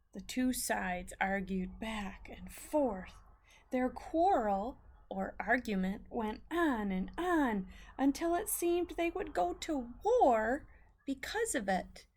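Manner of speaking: put-on storyteller voice for kids building up; reading to children. A narrator's reading. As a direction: read it to the class, building suspense. Teacher reads story aloud to class.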